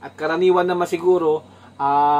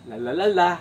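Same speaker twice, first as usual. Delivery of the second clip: babbling syllables. Shown as a demonstration. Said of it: "Una, dalawang syllable".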